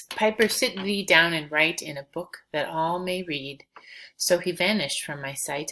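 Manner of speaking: measured, rhythmic recital of verse; poem reading. Acted. Teacher reading Blake's piper poem to the class, recital voice. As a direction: let each rhymed line ring out.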